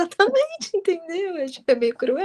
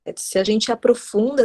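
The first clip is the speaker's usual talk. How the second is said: ordinary talk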